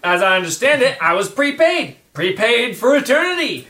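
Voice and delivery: high, laughing put-on accent. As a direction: giggle through the accent. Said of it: "We can tell".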